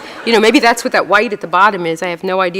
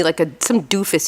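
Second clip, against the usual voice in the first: ordinary talk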